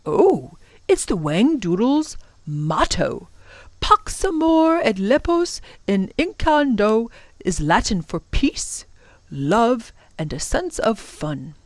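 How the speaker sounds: lilting, lightly voiced professor; explaining professor. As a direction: translate it with measured relish. Professor translates the motto.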